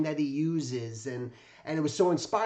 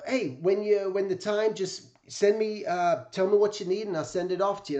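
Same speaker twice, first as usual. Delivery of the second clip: imitating Jack Davis; 5 semitones higher than usual. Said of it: "and it just talked like this".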